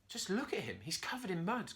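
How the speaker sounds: monkey muttering to himself. A narrator's reading. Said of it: "Curly told himself".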